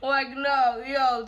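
laughing through the words. Real, not acted. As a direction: giggle out the no. Laughing at herself.

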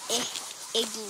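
"e" said as short I, as in igloo; short separate "ih" sound before "igloo"; short vowel demo. Shown as a demonstration. Child teacher showing viewers the letter sounds, short vowel demo. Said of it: "I makes the short sound".

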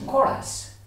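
"Call us" whispered, unvoiced; whispered repeat. Shown as a demonstration. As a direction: breathe "Call us" without voice. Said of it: "repeats phrase in a whisper".

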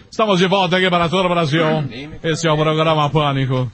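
fast, punchy host read; announcer voice back from the break; radio announcer. Acted. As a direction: sell the comeback to the listeners.

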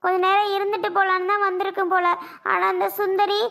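plaintive, insistent lament; aggrieved complaint. Acted. Sister complaining that her brother was hurried away, plaintive and aggrieved. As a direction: pour out the hurt to a husband.

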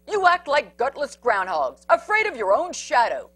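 loud mocking scold; bully dog scolding loudly; scornful bully. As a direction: sneer at the cowards. Big Bark scolds the others.

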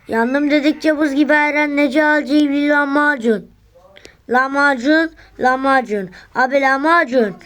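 melodic street vendor shout. Acted. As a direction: call out lahmacun like a street seller. Lahmacun vendor calling out.

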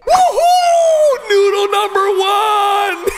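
victory cheer. Real, not acted. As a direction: cheer him on like a fan at a rally. Cheering cat's election win.

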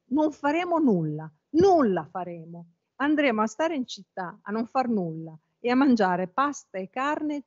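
reads the novel's dialogue with expression, a touch of acting; literary reading aloud. Teacher reading the grandfather and Ntoni dialogue to the class, expressive read-aloud. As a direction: read the page to the class, giving each voice a little colour.

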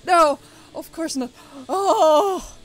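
loud, high laughing groan; laughing despair. Real, not acted. Gamer laughing in frustration at setback. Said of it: "I got a little emotional".

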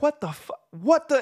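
broken-off high mock yell; imitated yelling. Imitating a friend's stunned voice note, mock yelling. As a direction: act out speechless shock, pitch shooting up. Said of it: "start yelling in the, in the thing".

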